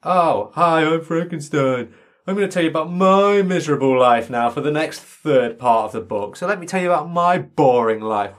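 whining self-pity, hammed-up; mock monster voice. Mocking the monster telling his sad life, whiny. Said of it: "he's like".

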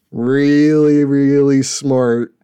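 slow, drawn-out mock praise; slow, loud and dripping with irony; sarcastic praise. Real, not acted. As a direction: lay the sarcasm on thick.

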